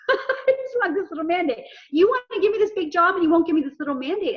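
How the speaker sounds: amused, exasperated retold plea; laughing plea. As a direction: laugh at your own frustration while pleading. Retelling her frustrated plea, laughing.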